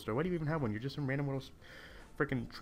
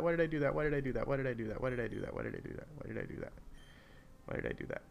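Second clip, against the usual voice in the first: fading self-reproach; faster than usual. Real, not acted. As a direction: repeat it, dying away to a breath. Repeats regret, fading away.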